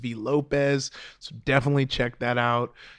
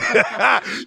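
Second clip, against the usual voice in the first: hyped laugh; 9 semitones higher, 7 dB louder than usual. Retold or imitated. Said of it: "I do a rapper".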